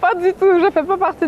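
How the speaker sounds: high, laughing no-no-no, amused and emphatic; laughing denial. Real, not acted. Asked if she's in the fetish community, laughing denial. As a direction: laugh the question off firmly.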